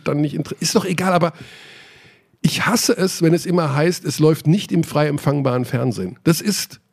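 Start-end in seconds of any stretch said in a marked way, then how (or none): 2.4-6.8 annoyed rant. Real, not acted. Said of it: "weil es mich aufregt".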